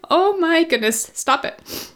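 high gasp, then a whispered stop it; real choked self-talk; scolding herself through tears. Real, not acted. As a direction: pull yourself together under your breath. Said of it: "get it together".

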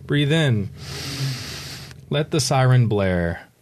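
unhurried, with room to breathe; guided meditation. Shown as a demonstration. Author leading a breath through a blaring siren, meditative. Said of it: "a little bit of a guided meditation".

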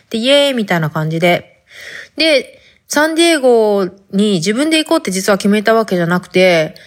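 chatty talk in Hakata dialect, a little put on. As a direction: speak casual Hakata dialect throughout. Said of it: "博多弁で行くけん". (博多弁で話す)

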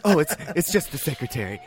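understated casual excuse; lightly voiced husband, covering. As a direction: toss it off like nothing's wrong. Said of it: "And he's like".

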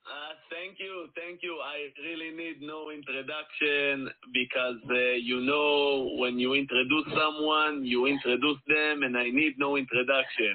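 put-on thick Israeli accent; hammed-up Israeli accent; heavy Israeli accent. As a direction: lay on a mock Israeli accent. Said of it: "let's drop the heavy accent".

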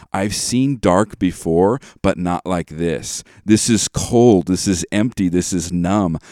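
slow and heavy, leaning into each gloomy line; mock-tragic Disney ballad reading; dramatic lyric recitation. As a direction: recite the song like a grave confession. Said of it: "she starts saying this".

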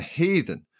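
high, accusing yell. A narrator's reading. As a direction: hurl the word at her like an accusation. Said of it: "Sally heard her yelling".

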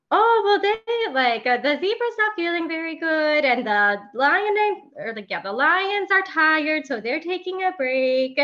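lightly voiced small girl; little girl voice. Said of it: "And she was like".

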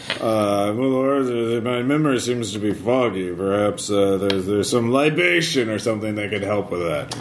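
put-on wheedling drunk; hint for a drink, sly; town drunk. Drunk NPC angles for drink.

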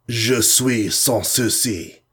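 slow, even French phrase; French, evenly. Acted. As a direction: say it calmly in French, unhurried. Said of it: "said Cars evenly".

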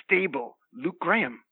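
lightly played wrestler hype voice; wrestling promo. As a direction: hype up the roster. Promo character lists wrestlers.

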